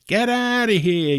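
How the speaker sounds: high, loud shout to get out; snapping at a homeless man to leave; retold yelling. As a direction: bark him off the premises. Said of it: "he starts yelling at this guy".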